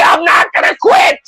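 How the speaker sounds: high, shouted vow to never quit; hammed-up defiant yelling. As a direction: yell it at YouTube like a battle cry. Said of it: "and you say".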